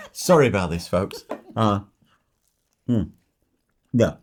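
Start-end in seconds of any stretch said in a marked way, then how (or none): 0.1-1.2 giggled apology to viewers; amused, laughing as the words come out. Real, not acted. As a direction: say sorry through a laugh. Laughing while eating messily on camera.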